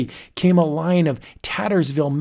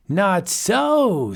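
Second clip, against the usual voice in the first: crying out; 6 semitones higher than usual. Acted. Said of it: "Scroon cried".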